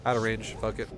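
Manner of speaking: units giving up. Retold or imitated. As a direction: voice the units losing interest, careless. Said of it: "They go".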